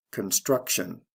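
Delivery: "construction" stressed con-STRUC-tion; stress before the ending. Shown as a demonstration. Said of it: "stress is right before the T I O N ending".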